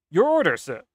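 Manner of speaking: operator voice. Acted. Catalog operator asks the caller for an order, put-on role voice. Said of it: "I gave her the wrong voice".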